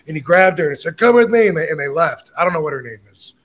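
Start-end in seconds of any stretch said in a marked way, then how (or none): 1.0-1.5 imitated shouted order, high and loud; retold scream. Husband grabbing his wife to leave, retold shout. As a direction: order her away in a raised, higher voice. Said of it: "starts screaming at her".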